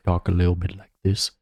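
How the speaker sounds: a quick nose-closed imitation of a player; imitating nasal talk. Friend copies another player's voice, nose closed and quick. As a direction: pinch the nose and rattle it off.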